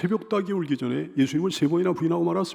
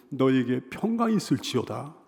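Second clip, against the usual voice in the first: lower, gentle pronouncement of peace; warm blessing; 5 semitones lower, 3 dB quieter than usual. Acted. Preacher voices Jesus greeting Peter after the resurrection, warmly. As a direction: bestow peace gently and low. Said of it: "따뜻하게 말씀하시는 거예요".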